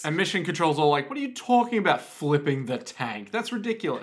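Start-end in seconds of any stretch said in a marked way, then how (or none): 1.1-4.0 scornful boss. Retold or imitated. Voicing scornful Mission Control.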